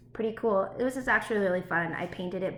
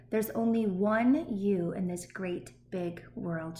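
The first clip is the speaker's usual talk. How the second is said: slow, gentle mother's words; tender read-aloud; slower than usual. Acted. Teacher reads Mama's loving words slowly.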